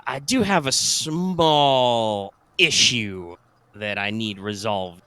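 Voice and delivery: slow drawl, pausing as if walking; a hint of a folksy sergeant, slowly. GM voices sergeant on phone.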